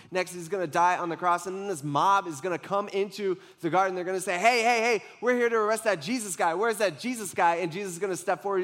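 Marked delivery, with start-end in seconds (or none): 4.4-7.6 louder, higher rough mob shout; mob calling out. Retold or imitated. Mob arriving in the garden, loudly demanding Jesus. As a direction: bark for Jesus like an arresting mob.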